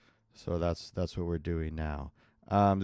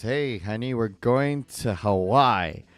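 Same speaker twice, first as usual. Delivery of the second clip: mock husband; 2 semitones higher, 7 dB louder, slower than usual. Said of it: "your husband comes up to you and says".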